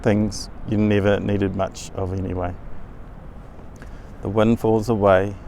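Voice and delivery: measured meditation narration with long pauses; guided meditation. Acted. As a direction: guide the listener step by step through a journey, unhurried.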